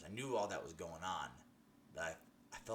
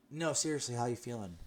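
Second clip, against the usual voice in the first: concerned doctor; 3 semitones higher, 4 dB louder than usual. Retold or imitated. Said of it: "voice was so alarmed and concerning".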